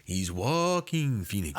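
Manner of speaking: slow, drawn-out mock Native American accent. Mocking the co-host's version of the name, exaggerated Native American accent. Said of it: "making him sound extra Native American".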